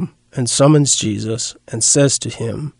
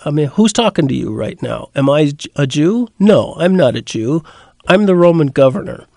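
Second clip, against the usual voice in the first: exasperated Pilate; 4 dB louder than usual. Retold or imitated. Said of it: "perhaps somewhat exasperated".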